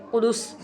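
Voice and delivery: قدس ending on a whistle-like s; whistling seen. Shown as a demonstration. Teacher demonstrating the whistling letter, sharp whistled s ending قدس. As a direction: let the final s of قدس whistle. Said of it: "سیٹ کی طرح آواز نکالیں گے".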